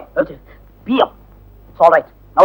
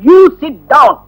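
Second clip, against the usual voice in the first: higher-pitched classroom command; barked order; 4 semitones higher, 3 dB louder, much slower than usual. Acted. Teacher ordering a pupil back to his seat, sharp command.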